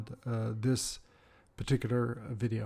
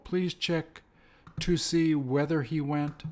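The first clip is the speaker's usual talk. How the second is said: "please" drawn out slowly; slow model sentence. Shown as a demonstration. Teacher repeating the pattern slowly for learners. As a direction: lay the sentence down word by word. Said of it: "They're the same".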